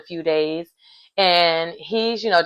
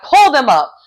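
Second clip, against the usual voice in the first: mock furious; 3 semitones higher than usual. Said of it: "Laura went off".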